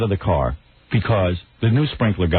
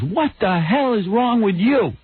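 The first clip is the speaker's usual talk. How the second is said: imitating his wife; 10 semitones higher, slower than usual. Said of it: "She goes".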